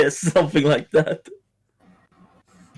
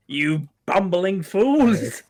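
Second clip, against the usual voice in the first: exasperated villain boss; 3 semitones higher, slower than usual. Acted. Acted villain scolding his henchmen.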